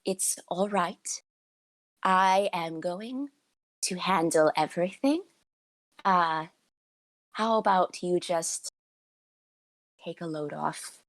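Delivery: reassuring. Acted. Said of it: "She can see you're panicking".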